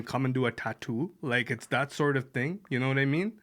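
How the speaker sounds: a light Canadian Indian accent, Brampton style; a light Canadian Indian accent for a podcast co-host. Shown as a demonstration. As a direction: try a mild Canadian Indian accent, unsure of it. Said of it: "I've gotta try and do it now".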